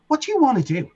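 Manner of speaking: hammed-up eager label boss; laughing mock boss. Label owner John Barlow begging, laughing mock question. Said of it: "was like".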